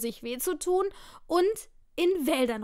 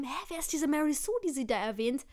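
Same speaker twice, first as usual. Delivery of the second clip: confused viewer; 4 dB quieter, faster than usual. Retold or imitated. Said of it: "die sich mal gefragt haben".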